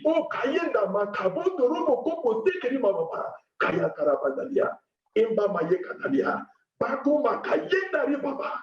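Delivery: rapid fervent glossolalia; speaking in tongues. Acted. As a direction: let the tongues flow in prayer. Prayer in tongues again.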